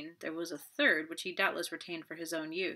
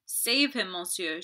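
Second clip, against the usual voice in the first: louder, pleading cry; cried out; 5 dB louder, slower than usual. Acted. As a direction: beg desperately. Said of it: "she cried".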